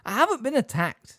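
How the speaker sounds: loud firm denial; emphatic. Acted. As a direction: deny it with force. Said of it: "said Hagrid emphatically".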